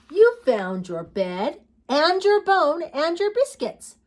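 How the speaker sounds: high, loud, drawn-out delight; slow storybook child praising a puppy; little girl. Acted. Little girl to her puppy, high excited storybook voice.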